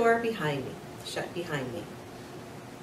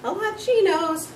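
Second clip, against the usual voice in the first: high, louder sneering retort; muttered scoff; 11 semitones higher, 5 dB louder than usual. A narrator's reading. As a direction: scoff under his breath. Garth sulking aside.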